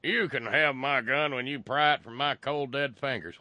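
mocking gun nut. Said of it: "their messaging is just downright stupid".

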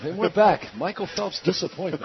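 mock Olympic commentator; sports commentary. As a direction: announce it like live sport. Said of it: "doing Olympic commentary".

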